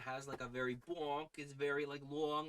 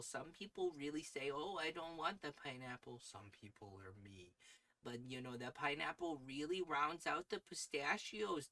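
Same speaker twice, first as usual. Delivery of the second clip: stereotypical Minnesota accent. Shown as a demonstration. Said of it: "stereotypical Minnesota accent".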